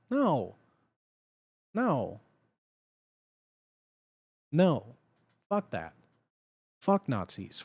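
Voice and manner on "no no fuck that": ordinary delivery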